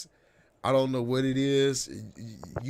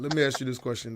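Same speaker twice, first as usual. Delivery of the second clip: ordinary talk, nothing marked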